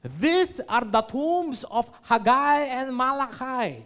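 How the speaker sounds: slow, announcing guide voice; tour guide's voice. Retold or imitated. Tour guide presenting the tombs to the group, slow and announcing. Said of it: "tour guide namin".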